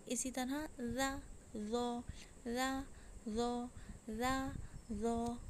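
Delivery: रा रो drawn out very slowly at the end; ra drill. Shown as a demonstration. Teacher repeating रा रो slowly for the class. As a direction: stretch रा रो long and heavy.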